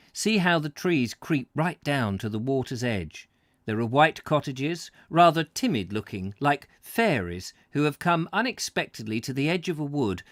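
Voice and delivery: measured read-aloud voice; story narration. Acted. Host reading a Cornwall travel book to viewers, narrating.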